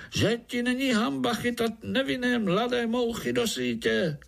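very high tiny-fly scolding cry; high insect reproach; fly groom calling out. A narrator's reading. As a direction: shame him in a squeaky voice.

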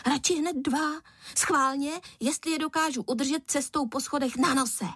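put-on high, cheeky kid voice; a boy teasing his cross father; mischievous boy. A narrator's reading. Son teasing his father at the table, high and cheeky.

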